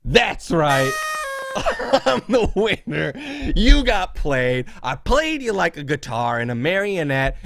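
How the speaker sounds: slow, drawn-out taunt with a laugh; mock gloating. Host taunting a rival he got played, gloating. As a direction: rub it in, stretching the words.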